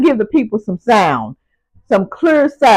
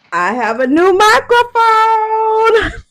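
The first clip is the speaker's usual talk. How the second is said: excited announcement; 11 semitones higher, slower than usual. Real, not acted. Big reveal of new mic.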